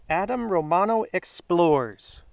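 slow, subdued repeat of a name; name read back. Real, not acted. Host confirms the winner's name, subdued read-back.

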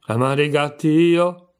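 a sharp, indignant mouse cry, slowed; a hint of a shrill angry mouse. A narrator's reading. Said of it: "con voce acuta e rabbiosa".

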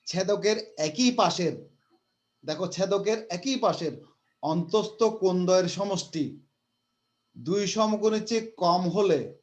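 slow, careful word-by-word reading; teacher slowly reading the hard fifth postulate; slow dictation. Shown as a demonstration. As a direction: take each phrase slowly for the class. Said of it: "আমি আস্তে আস্তে বলছি".

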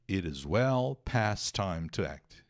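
slow, careful English read-aloud; measured teacher reading; slow model reading. Shown as a demonstration. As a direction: read it slowly for the class. Teacher repeats English line slowly.

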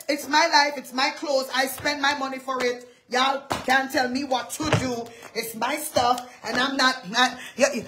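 mock defiant church member, dropping to a mutter; dramatic mock defiance. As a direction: act out a stubborn churchgoer brushing everyone off. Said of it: "No, don't do that. I'm sorry. I'm so dramatic".

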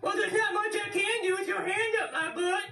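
high squeaky puppet voice, shouting back; cheeky high-pitched dummy; squeaky ventriloquist dummy. Acted. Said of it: "ventriloquist dummy".

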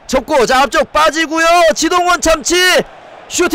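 hyped football call; excited commentary. Real, not acted. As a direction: call the chance with rising excitement. Commentating a chance on goal.

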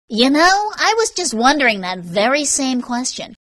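high, loud, pointed irony; exaggerated mock wondering; sarcastic retort. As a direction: throw the question back with sarcasm. Sarcastic retort to her question.

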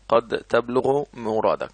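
"قد تبلغ مرادك" read slowly, stress on تبلغ; "قد تبلغ مرادك" drawn out word by word; slow dictation read. Shown as a demonstration. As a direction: spell it out slowly for the class. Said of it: "teacher repeats example slowly".

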